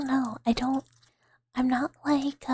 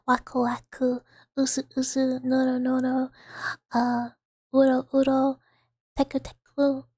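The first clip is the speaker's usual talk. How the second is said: cute; 4 dB louder than usual. Shown as a demonstration. Reading Japanese onomatopoeia triggers.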